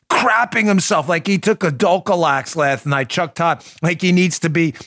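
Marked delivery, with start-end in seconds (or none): none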